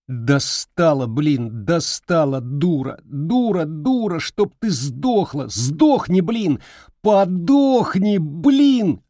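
furious tirade. Acted. Boy cursing his grandmother, building to a scream. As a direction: let it spiral into screaming.

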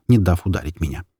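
ordinary delivery, nothing marked

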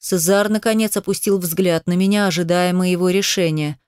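plain reading voice

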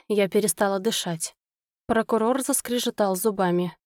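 usual speaking voice

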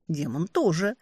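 usual speaking voice

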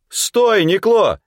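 high sharp shout to stop him. A narrator's reading. Older man shouting to stop Nikło, loud. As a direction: call out to halt a comrade. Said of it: "крикнул стоящий позади".

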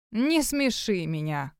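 scoffing. Acted. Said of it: "фыркнул Югай".

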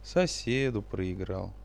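slow, downcast confession; glum. Acted. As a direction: admit it sadly and slowly. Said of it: "Аука снова пригорюнился".

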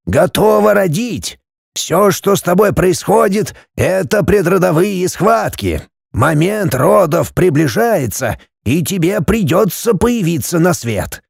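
a hint of a mystic old man explaining; old Kofler's voice.

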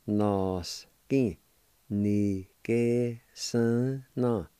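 "nos ki ni ke san na" drawn out slowly, syllable by syllable; slow careful Cherokee. Shown as a demonstration. Teacher slowly joining the two word parts for learners. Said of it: "pronounced like this".

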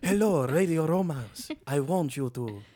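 seductive sultry purr. Pretend. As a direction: sweet-talk him in a sultry voice. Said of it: "Wow, that was a sultry voice".

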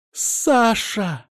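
high alarmed call of a name; frightened cry. A narrator's reading. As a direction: cry out his name in fear. Mother rushing to sick son.

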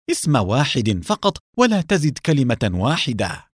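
angry demand. Acted. Nour demanding a name from Gabriel, angry and insistent. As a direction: press hard for one name. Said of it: "بنفس اللهجة الغاضبة".

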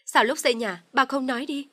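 high, loud challenge; angry retort. Acted. Husband angrily challenges his father. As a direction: throw the question back hard.

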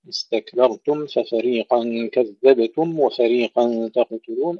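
slow recitation, each final م in استكبرتم and كذبتم distinct; clear mim. Shown as a demonstration. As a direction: sound the m fully before ف and و in استكبرتم, كذبتم. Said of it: "تحقيق الميم إظهارها". (تلاوة بإظهار ميم استكبرتم وكذبتم)

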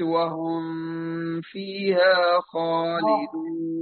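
"وهم فيها" read slow with a pause on the ميم; wrong reading, slowed. Shown as a demonstration. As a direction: stop on the ميم of "وهم", slowly. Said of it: "أو قلت". (سكت على الميم ببطء)

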